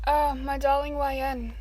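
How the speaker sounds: slow, tender motherly greeting; a mother welcoming her child, slow and tender; warm motherly voice. Acted. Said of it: "with her warm, motherly voice".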